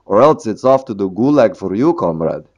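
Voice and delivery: mild mock Russian accent, playful; a light Russian accent for a joke. Teacher jokes about Soviet bosses, mild mock Russian accent. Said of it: "I like doing my Russian accent".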